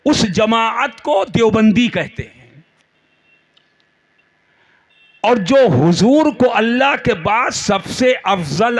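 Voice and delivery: emphatic oratory with held pauses; fervent preaching. Real, not acted. Preacher sets two groups against each other, emphatic sermon oratory. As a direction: lay out each phrase for a big crowd.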